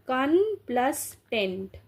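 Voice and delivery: "कन plus टेंट" with each part set apart; split into syllables. Shown as a demonstration. Teacher building the word for students, "कन plus टेंट" in separate parts. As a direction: break it as "कन", then "टेंट".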